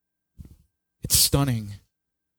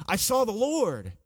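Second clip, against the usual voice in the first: higher, much softer, breathless awe; hushed awe; 8 semitones higher, 6 dB quieter than usual. Acted. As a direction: say it as if still overwhelmed. Quoting Isaiah's awe.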